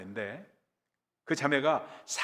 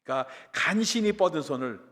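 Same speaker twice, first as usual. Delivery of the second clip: ordinary talk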